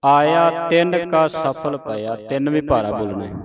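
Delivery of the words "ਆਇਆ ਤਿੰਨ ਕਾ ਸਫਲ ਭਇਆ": slow, drawn-out measured chant; slow scripture recitation. Shown as a demonstration. Teacher reciting scripture slowly for a student. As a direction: recite slowly, pausing at each stop.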